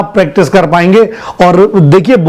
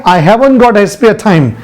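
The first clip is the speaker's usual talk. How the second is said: slow model sentence; much slower than usual. Shown as a demonstration. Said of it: "नहीं है".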